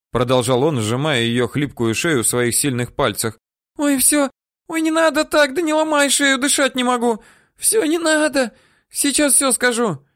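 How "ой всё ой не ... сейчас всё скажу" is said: high, loud strangled pleading; woman begging him to loosen the grip; choking woman begging. Acted. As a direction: beg high and loud as if the neck is squeezed.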